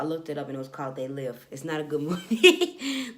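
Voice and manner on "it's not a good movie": laughing through the words. Real, not acted. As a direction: giggle mid-line.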